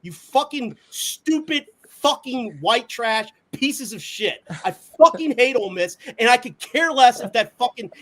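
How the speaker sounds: angry rant. Real, not acted. Angry rant at Ole Miss.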